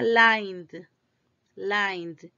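lined drawn out with a humming N before D; vibrating N. Shown as a demonstration. Teacher shows students lined vibrates, humming ending. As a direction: stretch lined, buzzing through N into D.

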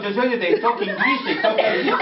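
English in a demonstrated French accent. Shown as a demonstration. Showing how the French talk English, French accent. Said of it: "It's a different kind of accent".

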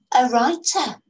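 put-on girl showing off what she knows, slow and lofty; air of authority. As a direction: lay it out like the expert. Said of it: "Letty said with an air of authority".

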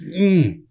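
wordless exasperated hum; frustrated "mm". Retold or imitated. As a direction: act out seething without words. Acting out pent-up anger wordlessly.

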